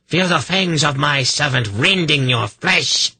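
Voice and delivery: high-pitched gloating villainess cry; exultant shout. A narrator's reading. Kabat gloats as her demon hunts, shouting. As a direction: shout the curse with savage relish, pitched high. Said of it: "she shouted".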